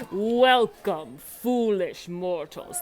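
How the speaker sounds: slow, spooky welcome; ghost host voice. Shown as a demonstration. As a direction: drag out foolish mortals like a ghost host. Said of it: "imitate the ghost hostess".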